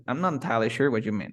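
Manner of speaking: quick, careless "I'm not entirely sure what you mean"; dismissive rush. Shown as a demonstration. Teacher imitates an inattentive, rushed reply. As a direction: rattle it off like you weren't listening. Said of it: "no te presté atención porque no quise".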